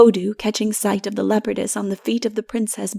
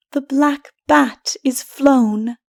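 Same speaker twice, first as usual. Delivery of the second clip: hushed; 3 semitones higher, 4 dB louder, slower than usual. A narrator's reading. Mara's hushed remark at dawn.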